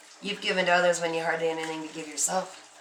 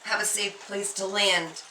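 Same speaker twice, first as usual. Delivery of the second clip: imitating crying lament; 3 semitones higher than usual. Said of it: "crying, going, just".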